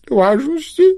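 высоко, с лёгким всхлипом; понарошку всхлипнуть на слове; всхлип старичка. A narrator's reading. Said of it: "всхлипнул старичок". (старичок всхлипывает, признаваясь детям)

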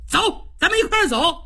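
Cheng Yaojin's indignant tirade, pitched high; a hot-tempered general blasts the adviser who fired him; heated outburst. Acted. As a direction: blurt out your grievance, fast and hot. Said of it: "程咬金一看就急了".

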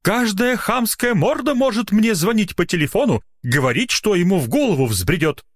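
high-pitched indignant complaint; exasperated rant. A narrator's reading. Doctor ranting to nurse, exasperated.

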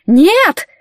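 high loud wailing no; despairing howl. Acted. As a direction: howl in dismay. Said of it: "взвыл мокрый".

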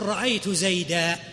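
slow, careful example; slow demonstration. Shown as a demonstration. Teacher slowly demonstrates the correct form to students. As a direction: stretch out زيدا. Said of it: "فتقول".

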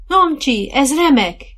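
high, loud cry of joy; delighted shout. A narrator's reading. Rider to her partner while trotting, joyful shout. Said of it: "kiáltotta Dorka".

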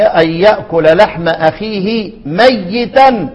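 drawn-out Quranic recitation; measured verse recitation; slow recitation. Shown as a demonstration. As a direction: recite it slowly, tajweed style.

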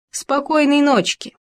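lightly sneering villain farewell; mustache twirling villain. A narrator's reading. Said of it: "ехидно засмеялся Ёж".

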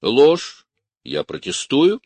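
a sharp loud cry of protest, then steadier; protesting shout. A narrator's reading. Arrested man shouting from the cab, protesting. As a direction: shout the denial, then object firmly. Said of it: "крикнул с извозчика Горенков".

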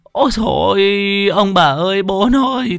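very high, tearful cries of relief; overjoyed calling. Acted. Mother crying out to the family that her child woke. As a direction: call out everyone's names in joy.

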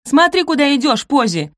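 loud high snap; snapping. Acted. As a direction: bark it at her. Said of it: "рявкнула Розамунд".

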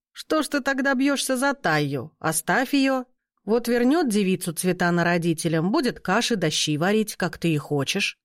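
a mocking raven talking. The raven answers the wizard. (насмешливый голос ворона)

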